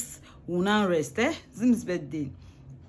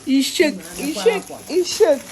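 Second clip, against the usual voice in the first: teasing; 5 semitones higher, 8 dB louder than usual. Real, not acted. Teasing the surprised child.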